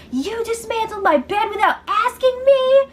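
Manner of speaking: high, indignant mock yell; retold yell at Mark. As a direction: demand an answer, outraged. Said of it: "she starts yelling at Mark".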